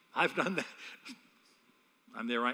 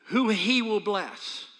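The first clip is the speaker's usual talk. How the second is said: slow emphatic preaching; 4 semitones higher, 4 dB louder, much slower than usual. Acted. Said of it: "preaching emphasis".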